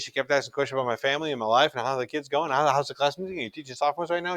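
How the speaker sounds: imitating a nonstop talker, words tumbling out fast; mock a mom who won't stop asking questions; chatty mom. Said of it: "she really talked like this".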